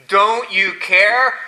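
slow, drawn-out mimicry of their complaint; mocking echo. Jesus echoing the disciples' question back: slow mocking. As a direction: drag it out as a mock.

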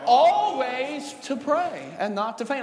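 Always drawn out, then the rest slow; stress on ALWAYS. Real, not acted. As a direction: answer the congregation with a long, punched Always. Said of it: "men ought what, church?".

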